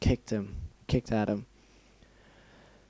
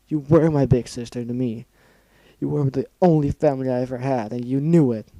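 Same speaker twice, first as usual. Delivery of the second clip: crying accusation; 6 dB louder than usual. Acted. Scootaloo crying and shouting.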